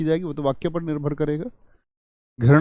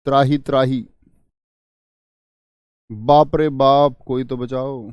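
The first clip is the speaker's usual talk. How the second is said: distress; 4 dB louder, slower than usual. Shown as a demonstration. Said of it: "दुख हो रहा है".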